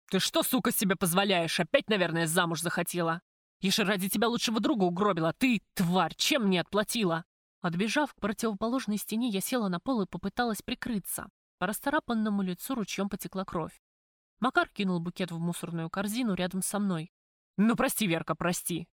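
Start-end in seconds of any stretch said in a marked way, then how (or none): 0.1-7.2 громко, зло, на «Я же ради тебя» быстрее; бей словами, как хлыстом; неистовый крик. Acted. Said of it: "неистово крича". 17.6-18.9 горячо. Acted. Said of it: "горячо заговорил он".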